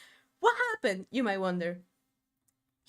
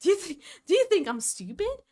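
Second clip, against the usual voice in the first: indignant retort; 3 semitones higher than usual. Retold or imitated. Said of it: "I was like".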